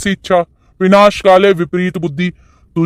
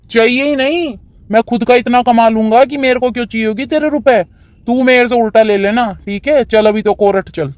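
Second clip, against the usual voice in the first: higher, quick, dismissive son's reply; defiant young son; 5 semitones higher than usual. Acted. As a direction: wave off the father's warning fast. Son refusing father's money. (ऊँची, तेज़ और बेपरवाह बेटे की आवाज़)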